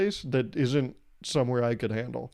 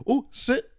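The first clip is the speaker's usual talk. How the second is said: put-on doggy baby talk; 11 semitones higher than usual. Friend commands the dog.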